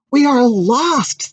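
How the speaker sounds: high, slow wail of despair. Acted. The people despair as pasta nears, high slow wail. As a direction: cry out in despair. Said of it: "said the people".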